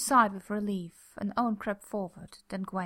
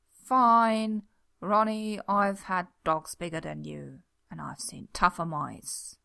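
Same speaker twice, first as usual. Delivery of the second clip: grudging taunt; 2 semitones lower, 5 dB louder, slower than usual. Acted.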